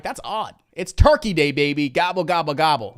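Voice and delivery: loud gobble gobble, hammed-up and playful; mock-cheer the holiday like a turkey; a goofy festive shout, lightly voiced; playful turkey day hype. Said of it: "I'm like".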